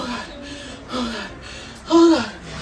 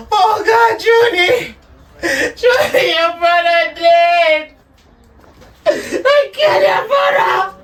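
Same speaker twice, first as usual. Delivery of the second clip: a mother screaming out her grief for her dead son; wailing grief; 6 semitones higher, slower than usual. Acted. Mother wails over murdered son.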